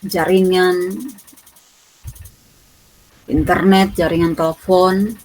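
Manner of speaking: earnest prayer voice; praying aloud to open class. Real, not acted. (suara doa yang khusyuk)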